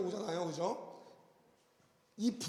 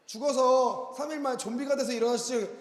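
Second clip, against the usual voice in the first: put-on repeating the child; 3 semitones higher, 5 dB louder than usual. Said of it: "이제".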